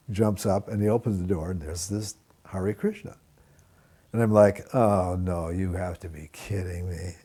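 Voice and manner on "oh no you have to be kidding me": dismayed. Retold or imitated. Dismay at the devotee at the door.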